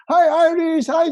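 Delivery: high, bright mock phone greeting; cheery call. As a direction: greet your friend like you're thrilled. Acting a friendly call.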